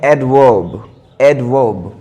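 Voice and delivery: एडवर्ब with no r sound before the b; silent r. Shown as a demonstration. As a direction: say एडवर्ब as "ad-vub", dropping the r. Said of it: "र silent रखते हैं".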